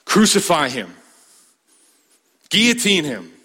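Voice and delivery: mock mob shout, rising high; a hint of a baying mob; crowd yelling. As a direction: cry it out like a bloodthirsty crowd. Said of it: "they're gonna yell".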